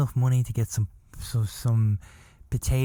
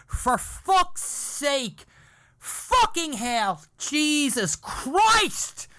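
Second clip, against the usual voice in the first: high, slow, stretched-out yelled curses; retold scream; 12 semitones higher, much slower than usual. Boy losing it in the empty cinema, high drawn-out yells. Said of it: "I literally screamed it".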